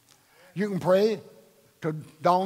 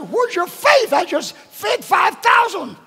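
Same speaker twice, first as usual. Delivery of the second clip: much higher, louder exasperated rebuke; voicing Jesus rebuking; 6 dB louder than usual. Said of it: "And I get up and say".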